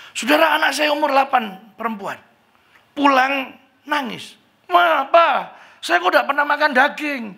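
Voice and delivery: high, loud, tearful-sounding retelling; emotional testimony. Retold or imitated. Village preacher retelling his daughter's tears, high and loud. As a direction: tell it like a pained preacher. Saksi begini.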